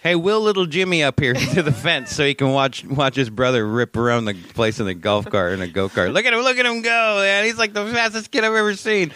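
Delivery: loud, high hammed-up sideline parent; mock excited cheering. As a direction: whoop it up like a proud fan at the fence. Acts out parent cheering from fence.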